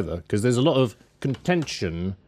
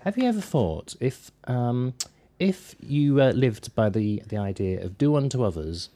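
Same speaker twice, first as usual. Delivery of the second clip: put-on softer northern English accent for a doorstep preacher; mock northern accent; 4 dB quieter, slower than usual. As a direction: imitate a northern English evangelist. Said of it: "I'm doing the northern accent".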